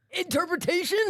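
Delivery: high, questioning lilt; tentative question. Retold or imitated. Inmate asking through the vent after a pause, tentative question. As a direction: venture it as a puzzled question. Asks after her speaking in tongues.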